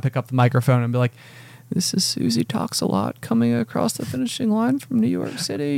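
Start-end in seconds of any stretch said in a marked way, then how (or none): 1.7-5.8 booming announcer voice. Pretend. Mocking his own announcer voice at the finish line. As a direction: call the runner across the line like a stadium announcer. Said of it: "That's my, that's my booming voice".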